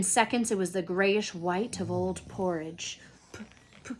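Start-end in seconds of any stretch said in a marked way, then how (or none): 3.3-3.9 stammering, high and loud; gasped in shock. Acted. Husband calling his wife in shock, stammering high and loud. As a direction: choke out her name in panic. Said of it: "he gasped".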